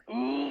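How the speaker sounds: acted wordless "ooh"; pained ooh. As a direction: let out a drawn-out, acted ooh. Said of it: "Bruh's just like".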